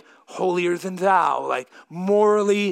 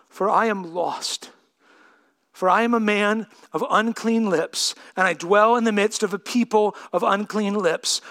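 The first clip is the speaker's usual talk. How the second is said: hushed Bible reading. Acted. Reading Isaiah quietly.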